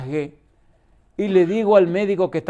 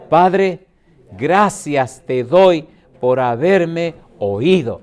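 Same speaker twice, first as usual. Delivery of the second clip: solemn prayer; 4 dB louder, much slower than usual. Acted. Jesus praying, read aloud.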